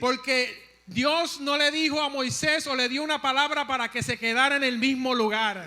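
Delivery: preach. Real, not acted. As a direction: drive the point home to the congregation. Preaches at raised intensity.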